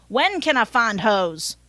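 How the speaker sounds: Southern driver's question, leaning on WHEN; Southern accent. Acted. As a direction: ask it with a Southern twang, punching when. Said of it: "I gave him a Southern accent".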